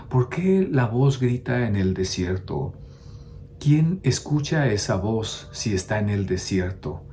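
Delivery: lightly imitated teacher philosophizing in a homily; measured, musing questions, a hint of the old master preaching; Noé Esquivel. Priest recalling his philosophy teacher's homily, lightly imitated, pondering. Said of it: "y decía, y se quedaba así, dice".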